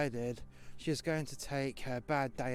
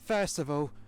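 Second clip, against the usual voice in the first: louder, mildly heated retelling of a telling-off; indignant retort; 3 semitones higher, 4 dB louder than usual. Retold or imitated. Worker retelling a row with the boss, indignant retort. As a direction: pull the boss up, raised voice.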